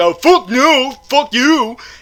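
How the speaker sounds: drawn-out creature bellow, slow and high. Retelling a movie scene, imitating the Frankenstein monster. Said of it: "the Frankenstein monster is like".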